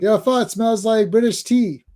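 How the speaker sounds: high, drawn-out cartoon Canadian voice; Terrence and Phillip. Host as cartoon Canadian answering the fart joke, hammed-up and slow. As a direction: deliver the silly punchline slowly, swooping. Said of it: "My favorite Terrence and Phillip".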